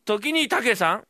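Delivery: slow formal address; slow mock-formal address; sudden formal tone. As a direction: switch to polite ceremony. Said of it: "急に調子が変わるの".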